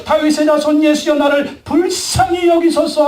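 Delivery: high, drawn-out plea; retold desperate call for mercy; crying out to Jesus. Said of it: "예수께 소리 지르며". (높은 목소리로 간절히 부르짖듯)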